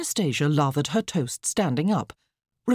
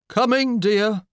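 raised, higher calling voice; 6 semitones higher, 5 dB louder, slower than usual. A narrator's reading. Drooping husband answering his wife, calling out. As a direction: call back to her dutifully. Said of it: "Mister McCrumpet called".

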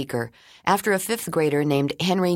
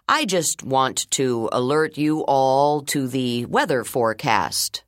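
principal voice; slower than usual. Acted. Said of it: "Mister Leroy's voice continued through the intercom".

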